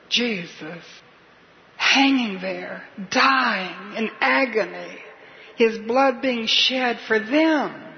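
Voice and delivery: slow, voice catching with tears; slowing down as emotion wells up; tearful. Real, not acted. Preacher picturing Jesus dying on the cross, tearful and slow.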